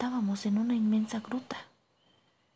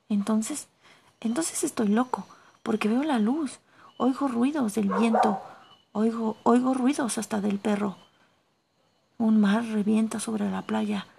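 put-on louder, tumbling words of a scared young man; frantic, fearing he's gone mad; agitated panic; 5 dB louder than usual. Axel begging his uncle to explain, agitated and loud.

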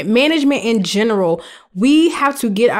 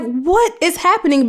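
mock shock; 6 semitones higher than usual. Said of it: "I was just like".

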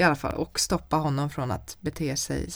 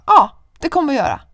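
fast, much louder yell; loud defiant reply; 8 semitones higher, 13 dB louder, faster than usual. Retold or imitated. Telling the neighbour to call police, yelling. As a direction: fire it right back at him. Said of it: "Jag bara".

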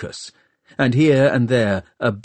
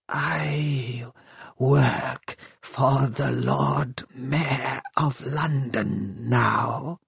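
soft, very slow inhuman voice; calm, deadly machine stating facts; cold machine voice; 3 semitones higher, 5 dB quieter, much slower than usual. A narrator's reading. Shrike the machine speaks to Hester.

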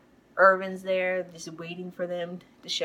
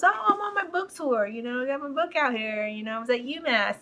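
high, breezy acted reply; Irvin; 5 semitones higher than usual. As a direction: lightly play a man explaining himself. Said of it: "He goes".

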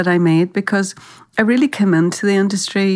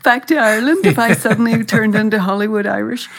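indignant retort; 4 semitones higher than usual. Retold or imitated. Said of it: "And I was like".

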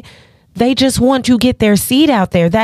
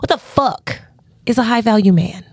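nice feminine voice. Shown as a demonstration. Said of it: "in my nice feminine voice".

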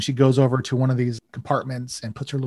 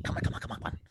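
hurried whisper; 9 dB quieter, much faster than usual. Acted. Chief hurrying them secretly.

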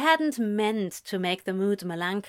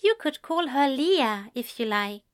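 higher, gentle offer; 4 semitones higher than usual. A narrator's reading. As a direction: offer it tenderly, easing off at the end. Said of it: "said in a gentle voice".

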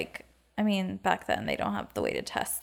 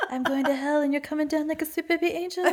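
laughing; 6 semitones higher, faster than usual. Real, not acted. Laughing joke.

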